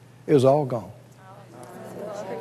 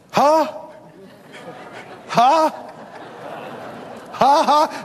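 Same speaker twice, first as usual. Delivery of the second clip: forced laugh; 4 semitones higher, much slower than usual. Retold or imitated. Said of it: "the more I did it".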